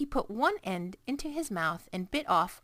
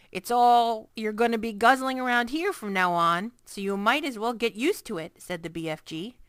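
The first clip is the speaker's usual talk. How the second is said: BFG giant voice; 3 semitones higher, 7 dB louder than usual. A narrator's reading. BFG voice held.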